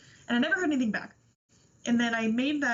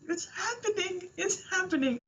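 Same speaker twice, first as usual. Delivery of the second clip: giddy excitement; 7 semitones higher than usual. Retold or imitated. Guest retells getting the message.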